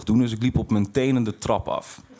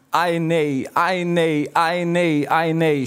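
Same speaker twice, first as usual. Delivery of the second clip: mother's rising wail; 4 semitones higher, much slower than usual. Retold or imitated. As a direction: voice the mother's crying "ai nee", building line by line. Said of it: "Steeds harder, steeds harder".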